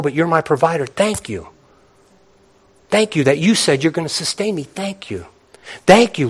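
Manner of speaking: fervent prayer of thanks; preaching prayer. Real, not acted. Preacher praying thanks before the congregation, fervent. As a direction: lift up a prayer of thanks to the Lord.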